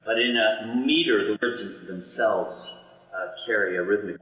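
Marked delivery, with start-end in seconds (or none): none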